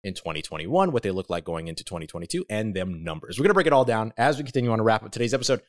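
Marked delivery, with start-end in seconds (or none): 3.4-5.6 breathless, rushing the words; winded and talking fast; out of breath. Real, not acted. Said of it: "You can tell I'm out of breath".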